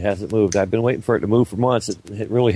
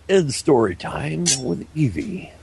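mock announcer; 4 semitones higher, slower than usual. Echoes the mock segment intro.

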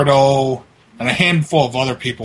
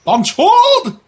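very high-pitched put-on cursing voice; mock angry caller; 12 semitones higher, 4 dB louder than usual. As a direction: squawk the insult, hammed-up outrage. Prank call cursing in put-on voice.

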